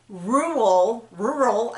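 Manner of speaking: "Rural, rural" tried twice, tongue tripping on the r and l; "Rural, rural" as careful, awkward attempts; struggling to pronounce. Shown as a demonstration. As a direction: work at saying "Rural, rural" clearly. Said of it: "now I can't even say it".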